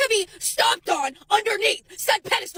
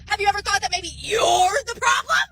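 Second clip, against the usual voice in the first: yelling; 3 dB louder than usual. Real, not acted. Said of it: "the constant yelling".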